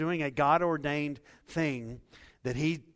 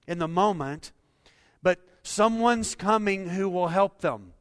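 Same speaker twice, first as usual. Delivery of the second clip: loud, high, urgent preaching; full-force preaching; 5 semitones higher, 8 dB louder than usual. Real, not acted. Pastor to congregation, preaching loud and high. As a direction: pastor pressing the point home.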